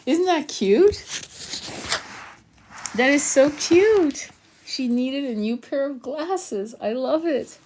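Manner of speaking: very high-pitched, drawn-out cooing; real squeal of delight at cuteness; delighted gushing. Real, not acted. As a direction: gush over something adorable. Gushing over a listener's cute share.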